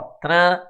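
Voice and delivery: TRAN held through the nose; nasal syllable demo. Shown as a demonstration. Teacher showing pupils a nasal syllable, TRAN said nasally. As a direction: let TRAN ring nasally on its vowel. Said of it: "sai fanho".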